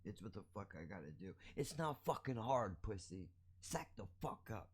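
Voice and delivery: shouting down an imagined anti-masker; angry rant. Acted. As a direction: tear into the mask refuser. Ranting at an imagined mask refuser.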